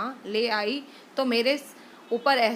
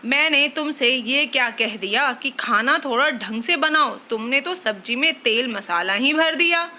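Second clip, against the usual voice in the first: mildly raised scolding husband; angry scolding; 3 dB louder than usual. Acted. Husband complaining to wife about tiffin, scolding. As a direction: scold her for the oily food.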